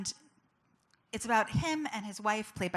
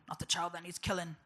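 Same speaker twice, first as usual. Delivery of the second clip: Liam Neeson; 2 semitones lower, 3 dB quieter than usual. Retold or imitated. Correcting her movie line, Liam Neeson-style accent. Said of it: "That sounds more Liam Neeson-y".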